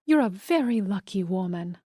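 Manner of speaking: put-on light Spanish accent, warm praise. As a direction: say it with a Spanish lilt. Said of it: "with a thick Spanish accent".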